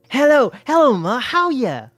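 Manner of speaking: high, loud eager hello; eager hustler greeting. A narrator's reading. Bart calling his mother for money, eager. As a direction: gush at mom to butter her up.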